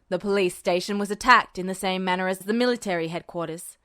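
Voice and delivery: a hint of a menacing general. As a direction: drop into a low menacing register. Voices Tanaka.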